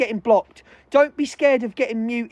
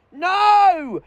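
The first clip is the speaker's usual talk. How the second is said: angry shout; 6 semitones higher, 3 dB louder than usual. Real, not acted. Furious rant, shouting denial.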